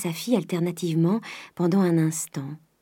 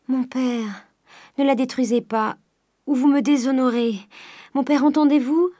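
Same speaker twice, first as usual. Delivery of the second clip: high-pitched urgent begging; desperate plea; 6 semitones higher, 3 dB louder than usual. A narrator's reading. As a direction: implore him, rising to a loud demand. Daughter begs father to spare case. (supplication pressante, voix aiguë)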